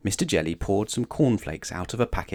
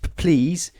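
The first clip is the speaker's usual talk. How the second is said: high, stuttered timid plea; frightened stutter with words bursting out; quivering stammer; 6 semitones higher than usual. A narrator's reading. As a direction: tremble and stick on each first sound. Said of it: "quivered and shook and said".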